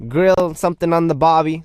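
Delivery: hammed-up Aussie accent; bad Australian accent. Host playing to Australian fans, mock Aussie accent. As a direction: attempt a jokey Australian twang. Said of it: "Sorry if that was a really bad accent".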